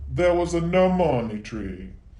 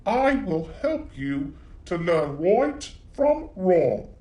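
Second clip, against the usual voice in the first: wise cricket. Acted. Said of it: "he told Pinocchio".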